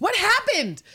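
high, loud startled question; mock alarm. Host acting the shocked character with a high, loud question.

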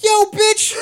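very high, loud mock yell; shouted insult. Student shouting at a parent, mock yelled insult. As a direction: holler it out suddenly, hammed up.

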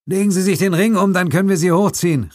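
high, loud call to the man below. Acted. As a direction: call it down over the rail. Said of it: "rief der Chinese". (Suko ruft dem zitternden Mann laut zu)

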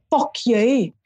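slow Northern Irish swearing; Northern Irish accent. Retold or imitated. Friend from Northern Ireland teaching swearing, Northern Irish accent. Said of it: "obviously from Northern Ireland".

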